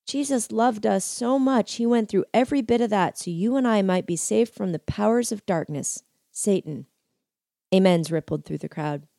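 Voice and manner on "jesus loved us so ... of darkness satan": voice cracking. Acted. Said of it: "his voice cracking".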